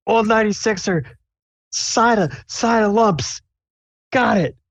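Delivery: very high, sing-song order callout; high cook callout. Acted. Cook calling order to kitchen.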